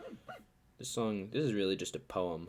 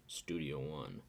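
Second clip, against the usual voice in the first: laughing; 4 semitones lower, 6 dB quieter, much slower than usual. Real, not acted. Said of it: "which is much lower than S".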